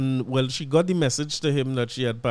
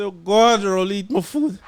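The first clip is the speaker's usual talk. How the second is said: startled exclamation; 6 semitones higher, 5 dB louder than usual. Retold or imitated. His shocked reaction, retold.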